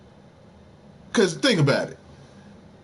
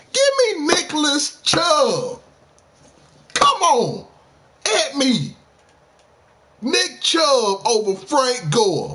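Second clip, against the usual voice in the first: high, slow, drawn-out challenge; hyped hot take; 10 semitones higher, slower than usual. Real, not acted. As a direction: taunt the doubters, slowly and high. Hyping his Nick Chubb hot take.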